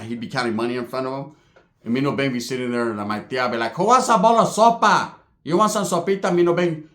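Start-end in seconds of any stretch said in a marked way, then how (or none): 3.7-6.9 higher, doting auntie offering soup; sweet aunt. Retold or imitated. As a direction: coo like a hospitable aunt.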